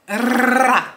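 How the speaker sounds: loud, high rolled-R gun burst; imitated gunfire. Acting out a lyric about a magazine, gunfire trill.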